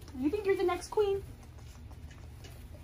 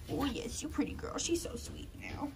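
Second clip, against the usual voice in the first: soft whisper to a sleepy puppy; 3 semitones lower, 6 dB quieter than usual. Real, not acted. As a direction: hush it like not to wake her.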